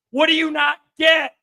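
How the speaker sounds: real exasperated yell; exasperated shout. Real, not acted. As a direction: demand an answer. Exasperated at trolls.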